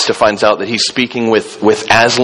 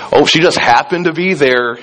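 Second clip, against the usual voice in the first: higher, breezy mock-casual aside; comic mock-innocent; 4 semitones higher than usual. Pastor mimicking the writer's wink about Ruth, playfully innocent. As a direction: toss it off as if it were pure chance. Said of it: "almost comically puts that".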